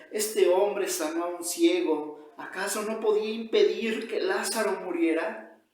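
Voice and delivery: loud, emphatic accusing recrimination; angry reproach. Acted. Angry crowd recriminating Jesus for Lazarus's death, loud reproach. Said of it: "Le siguen recriminando, la gente está enojada".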